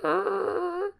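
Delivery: soft, high-pitched drone; thin, high eerie hum; imitated eerie noise. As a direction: imitate a faint noise in the night, high and quiet. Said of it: "I hear".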